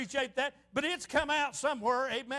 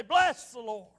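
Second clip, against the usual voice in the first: imitating an exuberant amen-corner preacher; retold exclaimed praise; 2 semitones lower, 5 dB louder, slower than usual. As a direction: call out the praise, lightly emphatic.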